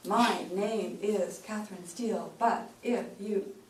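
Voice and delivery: slow, one word at a time, sounding angry; choppy word by word. Shown as a demonstration. Coach showing how word-by-word delivery sounds angry. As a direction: hit every word separately. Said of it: "we sound really angry".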